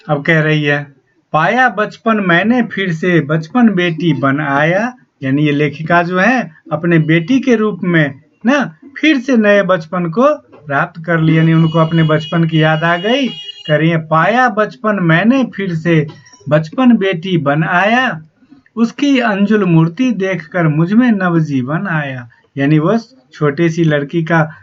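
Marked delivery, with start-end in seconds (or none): 1.3-4.9 slow, measured reading of a verse; poem recitation. Acted. Teacher slowly reciting the poem to the students. 14.1-22.3 slow, measured reading of a verse; poem recitation. Acted. Teacher slowly reciting the poem to the students.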